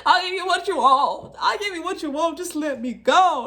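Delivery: high, loud, desperate begging; scared pleading. Retold or imitated. Begging the man who threatens to call police, scared and pleading. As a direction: plead for mercy, voice up and straining. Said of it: "At this point, I'm shaking".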